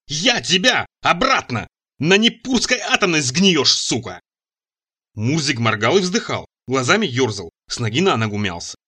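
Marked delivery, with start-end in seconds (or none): 0.1-4.2 breathless rage. A narrator's reading. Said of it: "задыхаясь от гнева, крикнул я".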